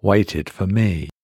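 slow, otherworldly menace; a grinning figure savouring the wait; sinister stranger. Acted. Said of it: "he says".

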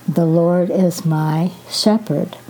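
"shepherd" set apart by a pause; pause, then land on "shepherd"; emphasis on the last word, "shepherd"; stress on shepherd. Shown as a demonstration. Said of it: "emphasize each word at a time".

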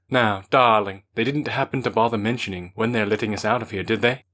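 put-on posh London accent; lightly faked posh Londoner accent. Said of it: "In an evidently faux posh Londoner accent".

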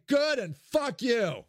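slow, shouted defiance; mock defiant shout. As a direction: spit it out slowly like a rebel. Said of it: "To which I say".

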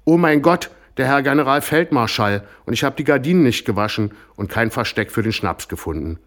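high, loud flustered cry fading toward the end; mother screaming in a fluster; panicked scream. Acted. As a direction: shriek in alarm at the high-ranking guest.

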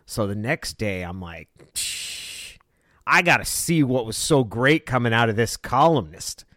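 talking out the side of the mouth; lightly imitated side-of-mouth storyteller; Marty McNeil. Sportswriter retelling his gripe about a colleague, lightly imitated side-mouth talk. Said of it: "talk out the side of his mouth".

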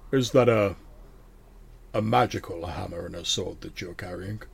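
demon dropping its act, curious; suddenly just a curious old man. Acted. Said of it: "in a slightly less demonic sounding voice goes".

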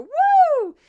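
soaring, very loud "woo"; high loud whoop. Shown as a demonstration. Host shows the audio wave jumping, loud high whoop. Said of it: "I see the audio wave just go".

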